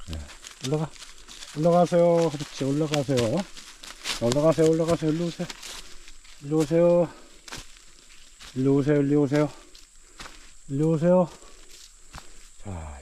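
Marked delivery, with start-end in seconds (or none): 0.7-5.1 talking to a dog. Real, not acted. Urging the dog up the hill. 5.1-11.3 raised voice calling a dog over. Real, not acted.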